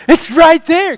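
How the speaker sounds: high, loud mock-dramatic retort; match his hammed-up alarm; dramatic right back. Answering the dramatic neighbor at the door, equally dramatic. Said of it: "kind of back at him".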